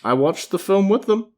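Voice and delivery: high, giggly defending; talking through giggles; laughing. Real, not acted.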